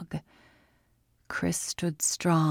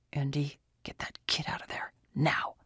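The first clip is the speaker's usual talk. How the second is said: holding back a shout; 2 semitones lower, 6 dB quieter than usual. Acted. Urgent order from hiding.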